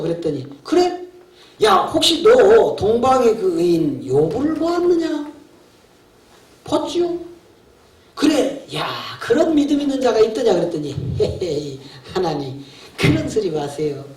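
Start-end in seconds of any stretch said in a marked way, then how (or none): 0.6-7.2 higher-pitched, drawn-out questioning as God; God questioning Satan. Acted. God asks Satan about Job, raised questioning voice. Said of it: "어떻게 말하실 거야". 8.1-10.5 lightly acted God, pitched higher; God boasting to Satan. God asks Satan about the faithful man, lightly voiced challenge. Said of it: "어떻게 말하실 거야". 11.2-14.0 lower-pitched, lightly mocking devil; Satan scoffing. Satan dismisses God's praise of Job, lightly voiced scoff. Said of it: "하나님하고 마귀하고 대화하는 내용".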